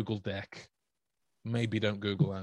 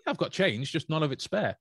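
higher-pitched teasing justification; mock-defensive quip; 5 semitones higher, 3 dB louder than usual. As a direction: protest it cheekily, pitched up. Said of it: "have them look at you funny".

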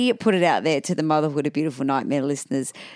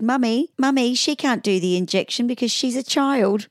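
lightly voiced little girl, pitched up; Allegra; 5 semitones higher than usual. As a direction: imitate a child alerting her mum. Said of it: "Allegra turned around and said".

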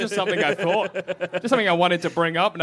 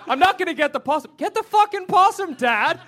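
voicing the argument; 9 semitones higher than usual. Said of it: "I just hear that argument".

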